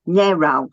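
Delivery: narrow, British pronunciation. Shown as a demonstration. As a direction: narrow with a flat short a, NA-row. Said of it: "my accent now".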